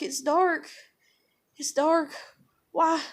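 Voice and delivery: put-on short high child phrases; retold toddler voice. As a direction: imitate a puzzled little girl. Voices the sleep-talking daughter.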